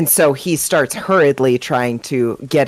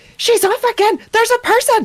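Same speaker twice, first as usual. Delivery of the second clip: very high, panicked, freaking-out outburst. Narrating a game, the speaker as Hawthorne turns to the group, freaking out. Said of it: "he's like freaking out".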